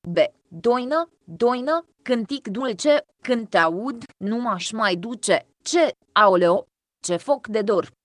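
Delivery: a lightly lilting, slowed reading of folk verse; folk poem recitation. Acted. Teacher reading folk verses to the class, gently lilting. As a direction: let the doina lines sing a little, unhurried.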